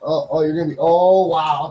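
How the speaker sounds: usual speaking voice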